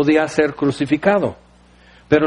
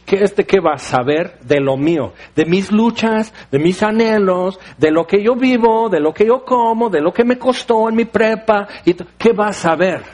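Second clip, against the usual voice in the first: scornful doubt; 2 semitones higher than usual. Retold or imitated. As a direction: sneer at the mechanic who knows nothing. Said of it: "Y estamos". (desdén burlón, un poco más agudo)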